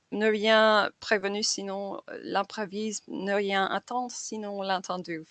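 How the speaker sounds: French quote read with a heavy English accent; clumsy French accent. Real, not acted. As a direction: read out the French line, anglicised and unpolished. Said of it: "Forgive my terrible accent".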